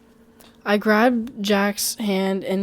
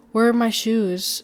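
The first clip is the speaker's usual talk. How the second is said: monotonous voice; 2 semitones higher, 4 dB louder than usual. Acted. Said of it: "in a mono-, monotonous voice that almost sounded like a recording".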